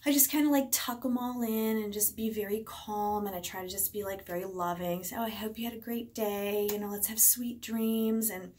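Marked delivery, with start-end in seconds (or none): 5.2-8.3 comforting bedtime voice. Retold or imitated. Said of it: "do that whole, like, comforting thing".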